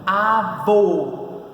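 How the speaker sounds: Avô with a long, strong VÔ; stressed syllable stretched. Shown as a demonstration. Teacher showing the tonic syllable, Avô with VÔ stretched. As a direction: lean on and hold the VÔ in Avô. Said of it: "Qual é a posição da sua sílaba tônica?".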